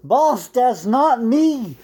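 frantic high-pitched pleading with the boss; desperate man. Acted. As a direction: beg the boss to believe you. Plays the man the moose replaced.

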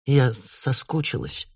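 slow, soft and teary; tearful. Acted. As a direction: hold back tears as you say it. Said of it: "ты впрямь плачешь".

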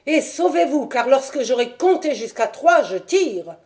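crier plus haut et plus fort, puis retomber sur « je tire »; ultimatum crié. Acted. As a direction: compter comme une menace. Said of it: "hurla monsieur Sherman". (Sherman crie son ultimatum au visiteur)

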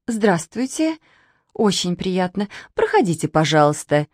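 uncertain. Acted. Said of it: "Неуверенно заулыбалась".

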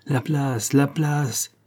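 impatient passers-by, lightly voiced; mild crowd cry. A narrator's reading. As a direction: call to clear the way, held back.

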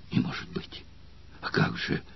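shocked breathless whisper; agitated exclamation. Acted. Spartacus reacts in shock to Valeria. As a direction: gasp it out unvoiced. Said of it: "взволнованно воскликнул Спартак".

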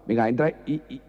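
regaño alto y molesto; riñe al cliente que grita; riña del estanquero. Acted. Estanquero riñendo al maño. (estanquero regañando al maño)

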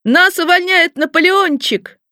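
high, slow chanting shout; children's gleeful cry. A narrator's reading. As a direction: crow it out slowly like delighted kids. Children cheering at being fired.

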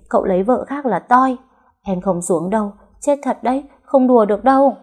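high-pitched, whiny protest; scared refusal. A narrator's reading. Wife refusing to get into the water, scared.

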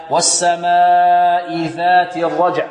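"ذات" chanted with an interdental dh, tongue tip at the teeth; correct tajweed ذال. Shown as a demonstration. Teacher showing students the letter's articulation point, correct recitation. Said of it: "تخرج من طرف اللسان".

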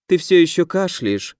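plain reading voice

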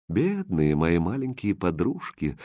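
soft, slow, sorrowful tenderness; sad and tender. Acted. Prince tenderly mourns his broken roses, soft and sad. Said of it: "грустно и нежно сказал Хрустальд".

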